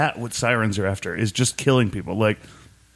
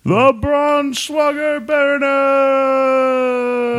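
booming ring announcer; swaggering loud taunts; 9 semitones higher, 4 dB louder than usual. Pretend. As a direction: stretch the name out big and slow. Boxing ring announcer intro.

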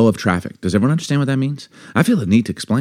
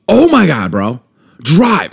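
exasperated yell; 4 semitones higher, 4 dB louder, slower than usual. Retold or imitated. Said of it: "I go".

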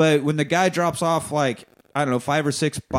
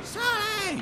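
mock crowd shout; 6 dB quieter than usual. Imitating crowd and cop.

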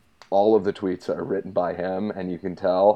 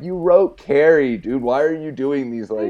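louder, higher scolding; exasperated rant; 5 semitones higher, 6 dB louder than usual. Retold or imitated. Host scolding Stephen King over his tweets, loud and exasperated. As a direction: berate him like an annoyed fan. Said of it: "I'm like".

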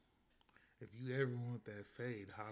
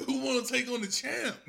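Victor Sweet voice; 8 semitones higher, 8 dB louder than usual. Acted. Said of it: "Victor Sweet's voice".

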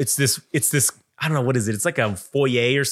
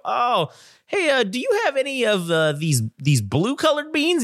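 put-on much higher, timid childlike asking; mock kid voice; 9 semitones higher than usual. Kids asking the bean clerk for blue beans, high kid voice. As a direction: imitate a kid asking shyly.

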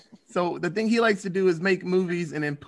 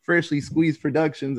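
ringmaster; 3 dB louder than usual. Pretend. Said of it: "I'm gonna do the cool intro".

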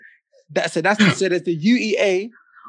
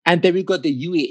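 attempted American accent. Shown as a demonstration. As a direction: try sounding American. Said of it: "in your best American accent".

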